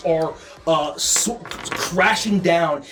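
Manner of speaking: steady descriptive narration over music; game master scene setting. Acted. Game master setting the scene for the players, measured narration. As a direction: paint the hellscape for the party.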